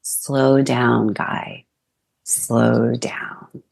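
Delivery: put-on slow and calm, a father easing his child. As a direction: gently settle an overexcited kid down. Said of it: "my dad would say in a very calm voice".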